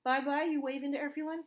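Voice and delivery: high sing-song bye-bye. Real, not acted. Prompting toddler to wave goodbye.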